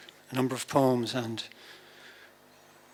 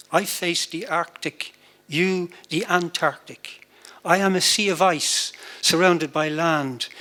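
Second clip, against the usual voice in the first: poetry reading. Acted. Poet reads own verse to an audience, measured poetry reading. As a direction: read it like a poem, letting each image land.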